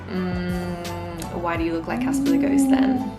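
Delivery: mocking question. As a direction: jab at her like a smug friend. Mocking others about her pale skin.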